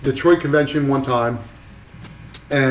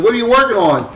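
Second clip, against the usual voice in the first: higher, curious mentor voice; imitating Mike Malone; 9 semitones higher, 4 dB louder than usual. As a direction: lean in and ask like a nosy old pro. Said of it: "he's like".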